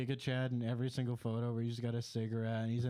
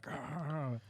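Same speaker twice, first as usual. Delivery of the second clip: mild mock scream; 3 dB quieter than usual. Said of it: "he would, like, scream".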